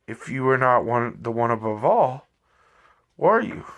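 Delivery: a touch of irritation giving way to curiosity; irritated but curious. Acted. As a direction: press him, half annoyed, half wanting to know. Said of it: "a little irritated, but yet genuinely curious".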